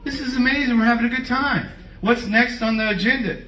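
mock-giddy disciples having a great time; excited disciples. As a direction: gush like happy friends at a party. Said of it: "they're like".

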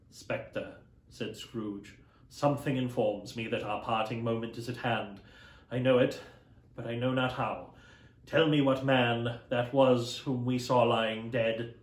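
put-on an old miser pleading with a ghost; lightly voiced Scrooge.

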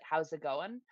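clipped fast mumble of a greeting; quick slurred greeting. Shown as a demonstration. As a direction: rush it together like one word. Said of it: "fast enough, like".

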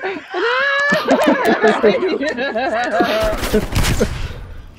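giggling fit with hiccups; hiccuping laughter; hiccup giggles. Real, not acted. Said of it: "They laugh at my hiccups".

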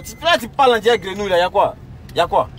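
angry challenge. Acted. Passenger confronting the taxi driver, angry and loud.

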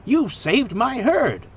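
high, slow, delighted farmer voice; pleased countryman, stretched out and high; chuckling farmer. A narrator's reading. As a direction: lilt it slowly with grateful amusement. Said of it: "chuckled the farmer".

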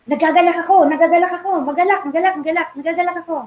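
lightly voiced joyful apostle; imitating joyful Paul. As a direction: voice Paul overflowing with joy in prison. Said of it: "he would say".

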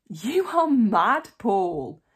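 high, loud, slow outburst; shouting. A narrator's reading. Festus shouting at Paul in court, high and loud. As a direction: yell it in disbelief. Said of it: "Festus shouted at him".

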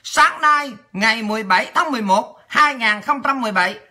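measured, formal bulletin reading; news read. Acted. Reading listeners a parliament news item, measured news read.

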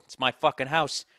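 assertive man-of-the-house claim; boastful bravado. Real, not acted. Man boasting about his home, assertive bravado. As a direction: lay down the law proudly.

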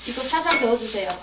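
ordinary delivery

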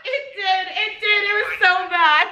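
laughing. Real, not acted. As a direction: crack up while talking. Laughing at failed accent.

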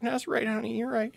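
high, soft appeasing voice; mock placating. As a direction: placate a partner in a small high voice. Acting out placating an angry girlfriend.

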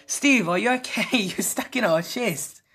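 high, put-on worried call; mock concern. Gamer teasing Steve stuck in a chest, mock worried. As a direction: call out to the trapped character.

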